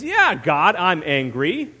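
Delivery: sarcastic, loud opening; lightly acted sarcastic retort; Jonah. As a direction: answer back with mock-angry sarcasm. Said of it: "imagine this horribly sarcastic tone".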